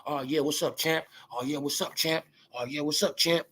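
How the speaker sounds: low, quiet sucking-up voice; mock fawning host. Vlogger mocking show hosts fawning over Wilder, low and quiet. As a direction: imitate the hosts buttering up the champ.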